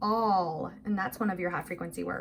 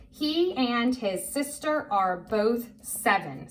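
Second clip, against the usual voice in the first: slow, word by word; careful, spaced-out read-along voice; model reading; slower than usual. Shown as a demonstration. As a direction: read it out slowly for a learner to follow. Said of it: "I'm gonna say it once".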